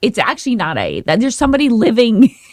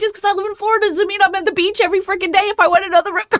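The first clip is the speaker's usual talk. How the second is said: acted-out furious, fed-up, high screaming; 8 semitones higher than usual. Retelling yelling at a voice assistant about rip currents: imitating herself screaming. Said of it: "screaming bloody murder at her".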